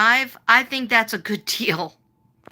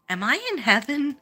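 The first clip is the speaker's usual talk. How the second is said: higher-pitched delighted inner voice; retold excitement; 6 semitones higher than usual. Customer to herself about the salon, retold excited thought. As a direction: act out being thrilled, pitch lifted. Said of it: "like, so excited".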